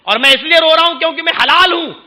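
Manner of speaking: a hint of a fretting bird; pigeon complaining. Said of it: "تو کبوتر بولا".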